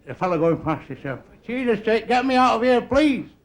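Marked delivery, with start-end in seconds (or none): 1.5-3.3 desperate plea. Acted. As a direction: mock-desperate begging. Sinking runner begs for rescue.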